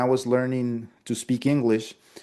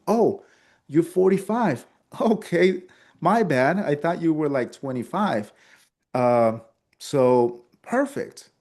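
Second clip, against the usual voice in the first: pitched-up playful apology; mock surprise; 4 semitones higher than usual. Shown as a demonstration. Salesman reacting to client's real age, mock surprise. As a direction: act caught off guard, lightly.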